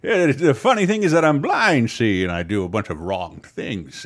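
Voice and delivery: Magoo impression. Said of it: "I'm not doing a good one at all".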